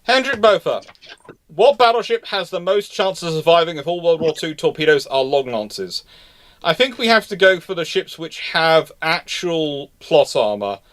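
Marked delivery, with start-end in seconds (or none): none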